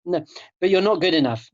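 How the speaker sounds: lightly voiced inner critic butting in; mildly insistent, needling objection; nagging snake voice. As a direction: push in with a nagging doubt. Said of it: "the snake voice".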